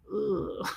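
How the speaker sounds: soft disgusted ugh; quiet groan of disgust; mock disgusted groan. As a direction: imitate a put-off listener's groan. Acting out his disgusted reaction.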